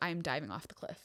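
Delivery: play-acted anxious, protective, nervous, worried delivery. Retelling a partner's words on a cliff hike: imitating someone nervous. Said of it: "he was so nervous".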